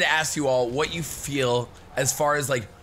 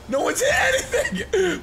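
squeaky laughing mock. Mocking opponents who miss shots.

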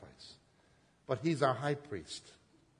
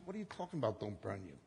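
calm reply; 5 dB quieter, faster than usual. Retold or imitated. Calming the frightened woman.

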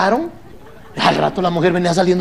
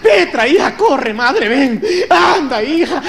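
gasping for breath between sobs, a bit higher; a hint of a fainting widow; breathless mock crying; 5 semitones higher, slower than usual. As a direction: call your daughter mid-sob, hammed up. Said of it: "agarran el resuello".

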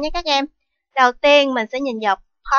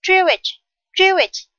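Jewish, higher, first syllable stressed; 5 semitones higher than usual. Shown as a demonstration. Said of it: "with the stress on the first".

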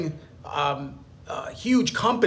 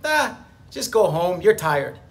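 lightly voiced excuse-making inner voice; mild mock tempter; lizard brain voice; 3 semitones higher than usual. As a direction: coax yourself out of it, half mocking. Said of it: "the lizard brain says stuff like".

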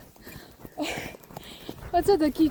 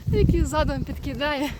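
ordinary talk

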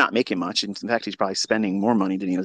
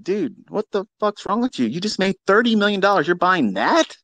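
mock complaint; 8 semitones higher than usual. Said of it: "everybody complained and said".

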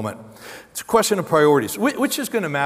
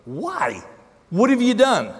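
a louder, higher demanding retort; Pilate retorting; 6 semitones higher, 4 dB louder, slower than usual. Acted. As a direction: snap the question back as a challenging governor. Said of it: "Pilate retorted".

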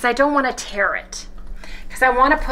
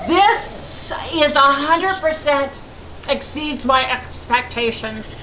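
talking while chewing; words round a bite; mouth full. Real, not acted. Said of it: "quit talking with my mouth full".

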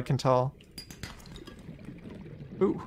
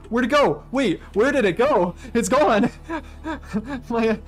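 high, loud bewildered outburst; startled shock; 7 semitones higher, 3 dB louder than usual. Real, not acted. Gamer shocked her medal disappeared, half laughing. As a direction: cry out as the medal vanishes.

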